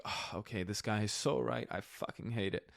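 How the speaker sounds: quiet, deflated retold grumble; reluctant concession, voice dropped; grudging admission. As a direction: admit it softly, almost under your breath. Grudgingly admits the other was right.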